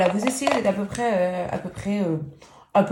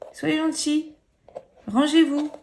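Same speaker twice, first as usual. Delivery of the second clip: put-on higher, talking to threads like kids; coaxing threads; 7 semitones higher than usual. Tutorial host telling her threads to behave, higher childlike coaxing. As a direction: coax them into line like little children.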